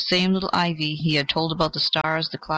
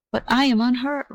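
high, earnest protest; insist, lifting the voice; remonstrating; 8 semitones higher than usual. A narrator's reading. The ivy protests to the dying oak, raised and earnest. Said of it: "remonstrated the ivy".

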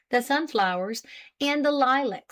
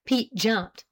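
ordinary delivery, nothing marked

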